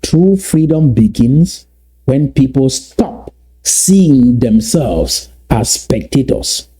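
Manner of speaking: slow, deliberate repetition word by word; slow repeat. Shown as a demonstration. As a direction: draw each word out so it sinks in. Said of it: "Let me repeat that slowly".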